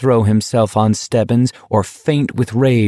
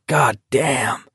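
whispery out of breath; 4 semitones higher than usual. A narrator's reading. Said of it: "a whispery, out-of-breath".

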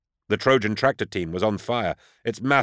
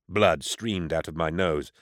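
usual speaking voice

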